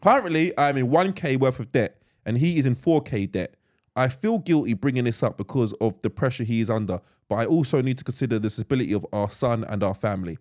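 measured read-aloud delivery; evenly phrased reading from a script; reading a message aloud. Acted. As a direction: read the letter out steadily. Reads a written message aloud.

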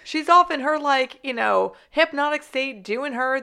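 high, loud and breezy, shrugging it all off; mock carelessness. Teammate brushing off the doctor's trance, mock careless and loud. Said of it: "and you're like".

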